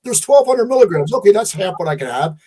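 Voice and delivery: high, loud mock read of the label; imitating a naive shopper, voice up high. Mocking a shopper who reads the soup can, high and loud.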